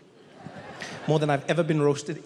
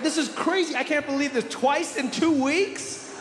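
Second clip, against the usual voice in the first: much higher, gushing fake delight; fake-surprised woman; 9 semitones higher than usual. Woman pretending to know the stranger, in a gushing high voice. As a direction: overact the joy of seeing an old friend.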